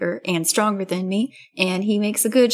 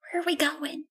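hushed question; 7 semitones higher, 9 dB quieter than usual. Acted.

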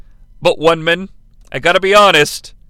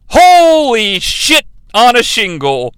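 astonished; 3 dB louder, slower than usual. Acted. Exclaims at shocking match moment.

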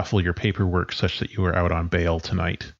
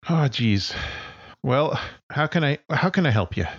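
5 semitones higher than usual. Acted. GM voices friend on phone.

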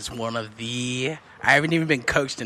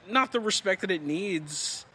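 ordinary talk

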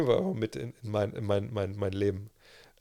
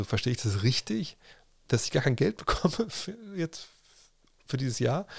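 laughing disbelief; 3 semitones higher than usual. Retold or imitated. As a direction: laugh through the question in disbelief. Incredulous email quote to publisher.

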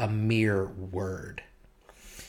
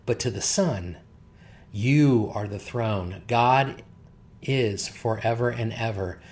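louder, measured public reading of the passage; louder formal Bible reading; scripture reading; 3 dB louder than usual. Acted. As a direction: proclaim the text to the congregation. Reads scripture aloud.

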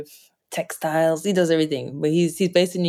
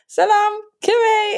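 high, bright, eager greeting in a much higher voice; imitating dad; much slower than usual. Dad greeting the lady whose house played music, high and excited. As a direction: greet like a delighted dad finding his people. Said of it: "He's like".

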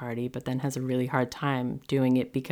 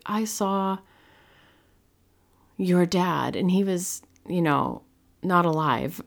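put-on child voice; 4 semitones higher than usual. Daughter reports seeing dead grandfather.

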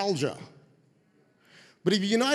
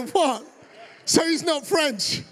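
gleeful disbelief; 6 semitones higher, slower than usual. Retold or imitated. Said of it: "I started laughing and laughing".

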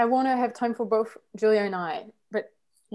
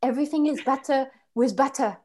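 put-on French accent, savouring the food. French person praises butter in life, French accent. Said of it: "I cannot do the French accent".

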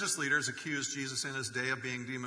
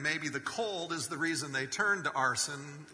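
laughing. Real, not acted. Laughs at own joke.

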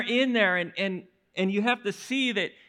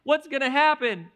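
much higher, louder mock panic cry; panicked yelling; 6 semitones higher, 5 dB louder than usual. Preacher voicing terrified fishermen screaming in the storm, high mock yell. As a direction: shout it like men sure they'll drown. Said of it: "these guys yelling, screaming".

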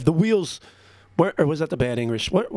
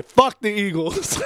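higher, louder jeering yell; taunting shout; 7 semitones higher, 4 dB louder than usual. Real, not acted. Host jeering at his Eagles-fan friend, a taunting yell. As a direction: throw it at them like a jeer.

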